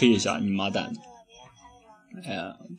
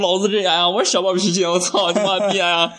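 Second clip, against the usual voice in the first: retold fury; 9 semitones higher, 3 dB louder than usual. Retelling his fury at insult.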